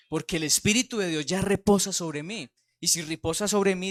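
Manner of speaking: rising, forceful pulpit testimony; fervent preaching. Acted. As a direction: preach it with conviction. (predicación fervorosa en voz alta)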